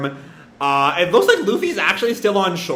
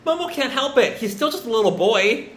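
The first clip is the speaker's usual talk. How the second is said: imitated choked-up sympathy, pitched up; fighting back tears; 6 semitones higher than usual. Nami defending Momo, fighting back tears. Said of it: "fighting back a tear".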